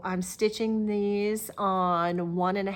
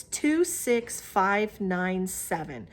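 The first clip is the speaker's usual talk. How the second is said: each number spaced out slowly; slow dictation; much slower than usual. Shown as a demonstration. Knitter dictating a yarn colorway number to viewers, slow and careful. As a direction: read the digits slowly so viewers can note them. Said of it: "the colorway is by a number".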